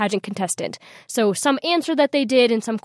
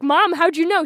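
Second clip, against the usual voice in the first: surprised question to mom; 7 semitones higher, 3 dB louder than usual. Retold or imitated. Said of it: "And I was like".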